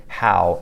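"how" as the English question word. Shown as a demonstration. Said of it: "in English".

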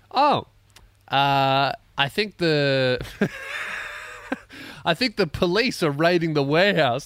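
high, loud with a laugh breaking in; laughing coworker. Retold or imitated. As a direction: giggle through the news. Coworker voiced, laughing mid-quote.

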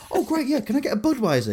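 high sarcastic cheer. Retold or imitated. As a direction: fake enthusiasm about the beer. Speaker mocks sister's order, high.

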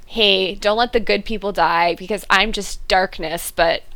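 a hint of a gloomy hero voice; lightly voiced brooding hero; mock brooding Oliver. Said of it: "Oliver goes ... and is all".

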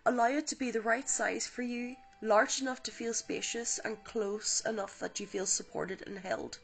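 calm guided visualization read; guided meditation. Acted. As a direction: ease the listener gently into the light. Leads a guided healing meditation.

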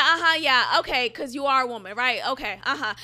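mock-agreeable, talking down to him; condescending. To a colleague claiming to be a woman, mildly condescending. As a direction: humour him with a knowing uh-huh. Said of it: "obviously sounding condescending".

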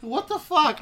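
high, loud incredulous outburst; retold hysterical disbelief; laughing disbelief. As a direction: exclaim it as if losing it. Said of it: "I can't stop laughing".

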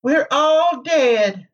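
high, slow mournful wail; sad. A narrator's reading. Egwene's apparition telling Rand they died, sad. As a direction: drag it out sorrowfully, far above your own pitch. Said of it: "she said sadly".

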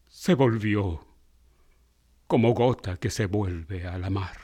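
measured, solemn poetry reading; poem recitation. Acted. Recites Amado Nervo poem.

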